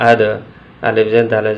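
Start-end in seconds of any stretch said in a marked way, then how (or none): 0.1-0.2 "আদ" with the d placed upward; raised dal. Shown as a demonstration. Teacher showing where dal sits, "আদ" articulated upward. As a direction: lift the final d of "আদ" with a bounced release. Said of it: "উচ্চারণটা উপরের দিকে হবে".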